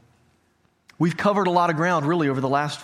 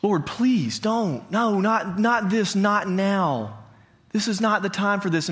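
higher-pitched, halting plea to God; mild panicked pleading, voice lifted; pleading prayer; 4 semitones higher, slower than usual. Retold or imitated. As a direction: retell a desperate prayer, pausing between pleas. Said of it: "And I remember thinking".

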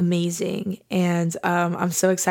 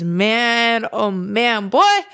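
overjoyed outburst; excited exclaim; 3 dB louder, much slower than usual. Real, not acted. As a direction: burst out with feeling. Missing listeners.

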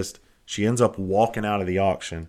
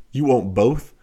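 louder, higher questioning rise; surprised check; 4 semitones higher, 7 dB louder, slower than usual. Retold or imitated. Auctioneer checks with the bidder who takes both donkeys, surprised.

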